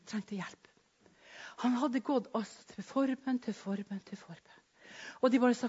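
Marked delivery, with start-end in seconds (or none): 3.4-4.0 breathy whisper of the phrase "til forbønn"; whispered repeat. Shown as a demonstration. 4.1-4.6 "til forbønn" barely breathed, much softer; "til forbønn" trailing into silence; fading whisper. Shown as a demonstration. Repeats phrase, fading away.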